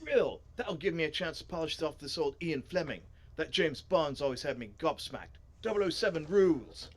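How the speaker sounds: enthusiastic put-on character voice; keen bookworm character. Reader as a character keen on Ian Fleming, enthusiastic voice. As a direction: build to a loud, punched finish.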